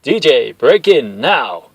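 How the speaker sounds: loud, slow barked command; urgent order. Acted. Commander ordering the tech to break in, loud urgent command.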